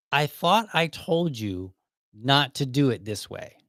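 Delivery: slow, measured imitation of a reprimand; mock scolding. Manager pulls employee aside again, scolding slowly. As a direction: spell it out like a displeased boss.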